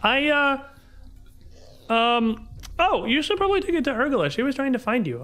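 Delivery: put-on high, hurried child voice with hesitations; helpful little girl. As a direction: think aloud like an earnest kid, then rattle it off.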